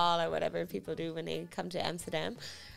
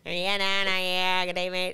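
put-on Aussie accent; 4 dB louder than usual. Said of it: "people think I'm Australian, like".

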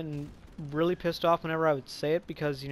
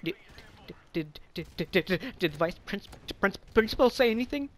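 imitated stammer, climbing higher as it goes; nervous stuttering; 4 semitones higher than usual. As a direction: trip over the first words like you're shaking. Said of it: "I'm, like, stuttering and, like, shaking again".

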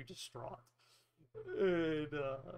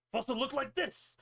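raised, exasperated protest; indignant character voice; 8 semitones higher, 4 dB louder than usual. Acted. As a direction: throw it back at them, offended. GM voicing a fox NPC.

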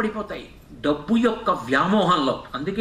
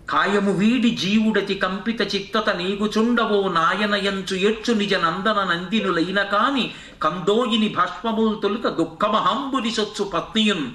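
verse recitation. Acted.

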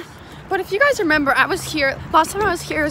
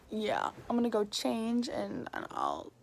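soft sleepy whisper; 3 semitones lower, 9 dB quieter than usual. Real, not acted. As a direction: whisper it to the camera. Morning vlog, whispering to camera.

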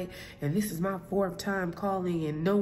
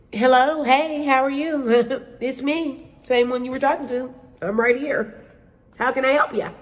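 mock sweet; 6 semitones higher, 6 dB louder than usual. Fake-sweet greeting to rude caller.

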